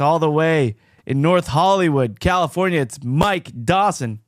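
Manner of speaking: loud, high announcer intro; announcer build-up. Acted. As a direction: boom it like a ring announcer. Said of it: "let's hear some more dynamics".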